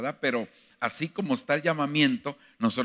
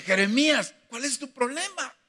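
God questioning Jeremiah; 10 semitones higher than usual. Retold or imitated. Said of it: "el Señor le tuvo que decir".

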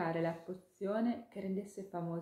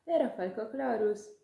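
higher, louder coaxing question; pleading sweetly for a yes; eager ladybug; 5 semitones higher, 8 dB louder than usual. Acted. Ladybug asking the hawk to make a fame potion, high and eager.

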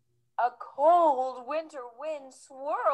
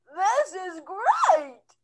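cried; 7 semitones higher, 7 dB louder, much slower than usual. Acted. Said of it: "the snowman cried".

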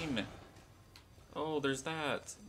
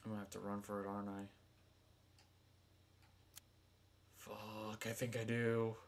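being chased; 4 semitones lower, 7 dB quieter than usual. Real, not acted. Hiding, about to flee.

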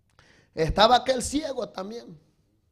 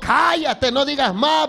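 scolding hush; 6 semitones higher, 6 dB louder, slower than usual. Retold or imitated. Crowd silencing the blind man.

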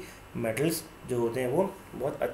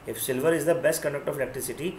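very slow, word by word like dictating notes; slow dictation; much slower than usual. Shown as a demonstration. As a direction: spell it out slowly for the class to write. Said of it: "teacher dictates a fact".

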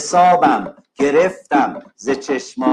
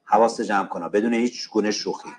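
stern warning; 6 semitones lower, much faster than usual. Real, not acted. Teacher warns a talking student.

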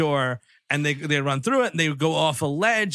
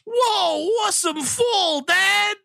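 put-on excited kid; 14 semitones higher, much slower than usual. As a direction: gush like a thrilled boy. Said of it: "this kid ... is like".

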